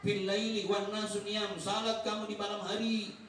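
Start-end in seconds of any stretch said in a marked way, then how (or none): 0.0-1.6 slow, drawn-out chanted hadith; slow Arabic recitation. Retold or imitated. Preacher quotes the Prophet to the congregation, slow recitation. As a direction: intone the Arabic slowly, like scripture. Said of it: "Kemudian kata".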